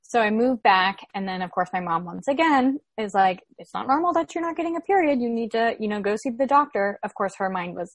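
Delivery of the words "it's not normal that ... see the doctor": imitating mom. Mom nagging, voiced in retelling.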